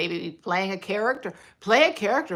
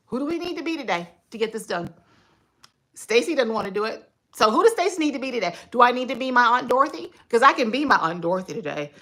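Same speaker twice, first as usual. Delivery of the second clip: brisk self pep talk; 5 semitones higher, 5 dB louder, faster than usual. Shown as a demonstration. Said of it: "See, my voice just dropped".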